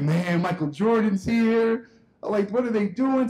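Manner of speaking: acted-out childhood excitement, mildly lifted; super excited. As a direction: stretch it out like a starstruck kid. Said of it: "like, super excited".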